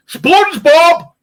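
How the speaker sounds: slow, loud, high call; drawn-out mock call for the cat. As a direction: yell across the back garden. Calling the cat at night.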